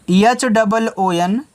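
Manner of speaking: slow, deliberate letter-by-letter spelling; letters spelled out slowly. Shown as a demonstration. Teacher spelling an English word for children, slowly. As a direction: spell each letter apart for the class. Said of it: "teacher spells word letter by letter".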